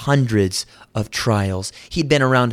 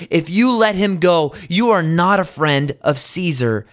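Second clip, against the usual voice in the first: higher, louder mock shout of the crowd; preacher voicing the mob's demand with a raised shout; retold crowd shout; 7 semitones higher, 4 dB louder than usual. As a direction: throw it out like an angry mob, half acted. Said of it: "the Jews shouted in response".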